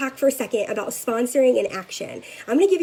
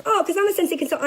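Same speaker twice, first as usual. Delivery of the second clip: chirpy reply; 7 semitones higher, faster than usual. Retold or imitated. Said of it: "I was like".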